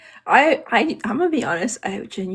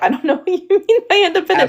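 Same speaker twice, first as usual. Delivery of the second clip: mock bewildered; 12 semitones higher than usual. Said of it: "I'm like".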